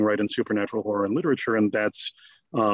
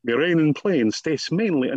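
a hint of an elocution-lesson British accent, slightly higher; My Fair Lady accent; 3 semitones higher than usual. Shown as a demonstration. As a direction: Dracula drilling British vowels, slowing on the last phrase. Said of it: "vampiric My Fair Lady".

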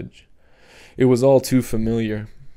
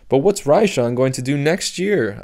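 persisting; 3 semitones higher than usual. Acted. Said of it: "I persisted".

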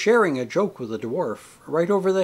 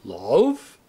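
deeper, louder theatrical question; tragedian's lowered, rising question; a few notes deeper; 3 semitones lower, 4 dB louder than usual. A narrator's reading. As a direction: drop the pitch and intone it with drama. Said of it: "Then a few notes deeper".

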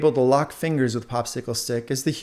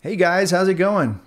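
bright, higher call to new friends; eager greeting; 7 semitones higher, 5 dB louder than usual. Acted. Popsicle Stick greets the new earbuds, excited and eager. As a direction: greet the newcomers, bubbling with excitement. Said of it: "He grew even more excited".

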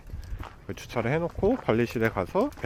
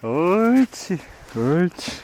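loud high call to the dog; 7 semitones higher, 7 dB louder, much slower than usual. Real, not acted. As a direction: call the dog across the yard. Calling dog loudly.

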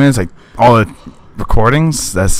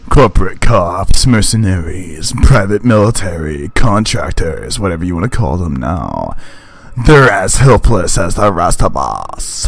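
lower, measured narrator voice sinking at the end; narrating the game to himself, lightly lower and grim; 3 semitones lower than usual. Acted. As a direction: narrate the scene like a grim story. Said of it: "I like to narrate it sometimes".

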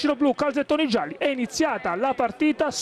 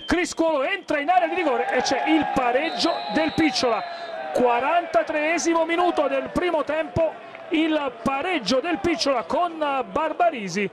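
raised, shouted call of the equaliser; excited goal call; 3 semitones higher than usual. Real, not acted. Equaliser called in live commentary.

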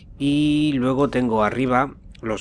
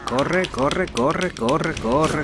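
being chased; 3 semitones higher, much slower than usual. Real, not acted. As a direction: urge yourself on in panic. Fleeing enemy in game.

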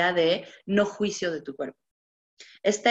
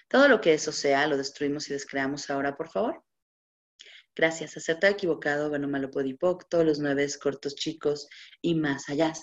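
smooth, practised litany of words; ritual clearing recitation; 3 semitones lower than usual. Acted. Facilitator reciting the clearing statement to her audience, steady chant.

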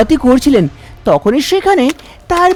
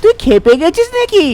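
scolding mother; 5 semitones higher than usual. Acted. Mother scolds son about marriage.

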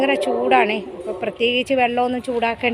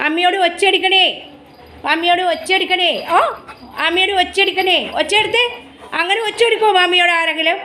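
higher-pitched pet-talk chiding; playful scolding; 5 semitones higher than usual. Real, not acted. Owner asking the dog if one shouts at mummy, mild high-pitched scolding. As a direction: chide a pet in a high, questioning coo.

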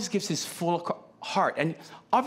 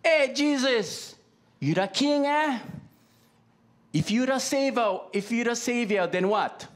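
mocking crowd; 5 semitones higher, slower than usual. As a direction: sneer it out slowly like a scoffer at the cross. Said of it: "mocking words".

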